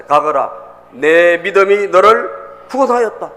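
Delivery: slow, loud declaration of Jesus; acted proclamation, drawn out and forceful; solemn pronouncement. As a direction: stretch it out with authority. Acts Jesus's pronouncement from scripture.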